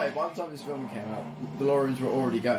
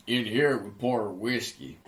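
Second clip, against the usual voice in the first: bad impression; slower than usual. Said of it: "I can do that bad".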